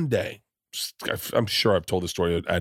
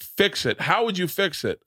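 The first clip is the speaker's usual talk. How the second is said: yoga teacher voice; 9 semitones higher than usual. Retold or imitated. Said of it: "He was like".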